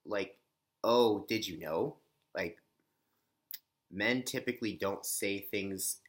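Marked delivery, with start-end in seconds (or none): 0.8-2.0 lifted, questioning rise on the end of "Oh, did you know?"; rising question tune. Shown as a demonstration. Showing how women stress words, with a question-like rising tune. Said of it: "such as, like".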